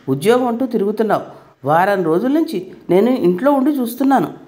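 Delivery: a son defends his mother, berating his wife; furious. Acted. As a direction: tear into his wife in a rage. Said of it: "అంటూ ఊగిపోయాడు".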